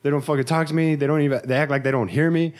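mock the self-pitying stranger; mocking homeless guy. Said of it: "he's like".

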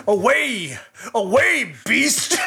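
high, hammed-up movie-dad cry; imitating horrified dad. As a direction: shoo off a monster in mock alarm. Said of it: "his dad goes".

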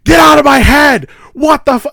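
high, panicked mock shout; retold freak-out. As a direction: yell it like someone freaking out. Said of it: "Rose is freaking out".

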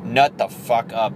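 angry dad. Retold or imitated. Masculine side to crying man, mild angry dad scolding. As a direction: bark at yourself like a disappointed dad. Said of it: "like an angry dad".

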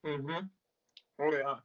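talking around a mouthful of ice. Real, not acted. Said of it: "Sorry, I got ice in my mouth".

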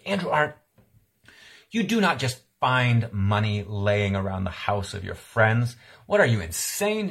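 stern mom. Retold or imitated. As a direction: scold him with a mother's fury. Mom scolding son over stolen money.

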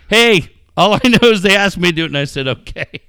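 1 read quote. Retold or imitated.

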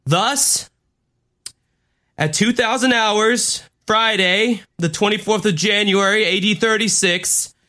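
imitating a church leader's speech; solemn pulpit announcement, lightly done; David Miscavige. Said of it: "and he's going".

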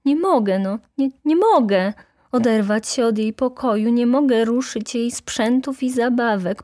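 high-pitched, distressed lament; sighing plea. A narrator's reading. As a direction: plead like a grieving mother. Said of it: "mówiła wśród westchnień".

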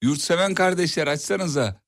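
slow, stress on Yurtseven; slow and deliberate. Shown as a demonstration. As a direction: Yurtseven said slowly and pointedly. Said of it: "Bir daha cümleyi bir daha söylesen".

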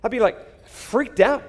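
grinning disbelief; excited. Real, not acted. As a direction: freak out with delight. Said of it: "preacher's own exclamation".

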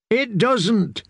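high, squeaky, forced out; squeak. A narrator's reading. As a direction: squeak the words out in fright. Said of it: "he managed to squeak".

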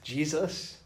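mildly incredulous rising question; a name turned into a question; puzzled questioning. Shown as a demonstration. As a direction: ask it as if puzzled. Preacher voices puzzlement at verse.

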